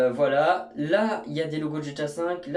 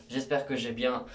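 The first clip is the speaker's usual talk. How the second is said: ordinary talk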